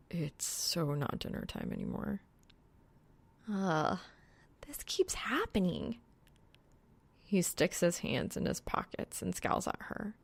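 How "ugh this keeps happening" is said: breathy exasperated whisper. Acted. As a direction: sigh it out under your breath. Reaper groans over her studying.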